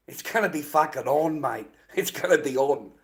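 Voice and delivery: heated, loud threat; angry. Real, not acted. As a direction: build the threat up hot. Angry rant about flag burning.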